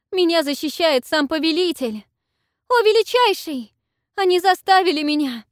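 very high, loud squeal; shrill squeal. A narrator's reading. Selsete squeals to the dragon, high squeal. Selsete pleads loyalty, shrieking.

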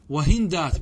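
وهندات said "wa-hindāt", no vowel after the n; sukun on the nun. Shown as a demonstration. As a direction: close on n in وهندات, hin-dāt. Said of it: "بالسكون". (وهندات بسكون النون)

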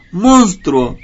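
high, loud anguished cry; loud sobbing shout of a horrified mother; shouting in tears. A narrator's reading. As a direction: scream it at the snake through tears. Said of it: "le gritó llorando".

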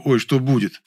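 a wry half-imitation of ой, что будет; echoing Dusya. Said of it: "Я и не сомневался, что".

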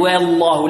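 والله with a light open waw, no tilt; correct wallah. Shown as a demonstration. Teacher modelling the correct reading for students, clear. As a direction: say والله with a thin waw and no imala. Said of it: "وهنا نرقق الواو بدون إمالة".

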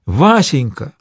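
high, anguished cry of a frightened wife; despairing scream, pitched high; desperate cry. A narrator's reading. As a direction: cry out in despair to mother and husband. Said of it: "в отчаянии закричала".

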